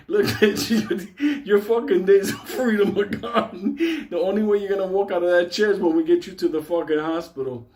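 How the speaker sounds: threat broken up by laughter; mock tough talk cracking into giggles; laughing threat. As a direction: try to sound tough but laugh through it. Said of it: "Mike was telling me".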